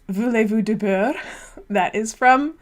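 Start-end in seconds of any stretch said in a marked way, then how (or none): 0.1-1.1 put-on quoting TV French in a poor accent; horrendous French accent. Host quoting Wonder Years to co-host, clumsy French accent. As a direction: badly imitate a French line. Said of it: "my horrendous French accent there".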